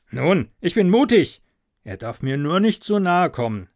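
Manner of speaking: shaky courage dressed as boldness; nervous bravado. Acted. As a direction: farmer steeling himself to see the devil.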